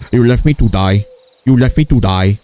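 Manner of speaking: lightly accented Indian impression at normal pitch; comic Indian accent; mock Indian accent. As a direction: repeat it as an Indian-accented accusation. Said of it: "That's how he sounds like".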